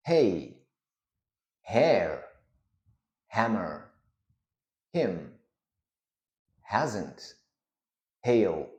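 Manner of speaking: standard American word-list demo; American accent. Shown as a demonstration. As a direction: say each word in standard American, vowels shifted slightly. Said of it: "more of an American standard pronunciation".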